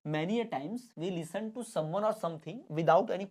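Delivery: slow, word-by-word reading; slow classroom dictation; dictation pace. Shown as a demonstration. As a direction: dictate it slowly for notes. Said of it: "dictation of definition".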